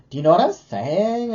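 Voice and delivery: high, loud imitation of questioning talk; mock uptalk. Vlogger mimics how women kinda talk, high exaggerated uptalk. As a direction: exaggerate a weird way of talking, never landing the sentence. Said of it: "that weird lisp or that weird".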